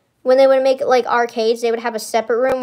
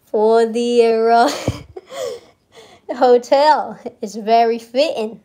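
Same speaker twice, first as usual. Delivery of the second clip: JFK impression; slower than usual. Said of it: "He doesn't talk like that".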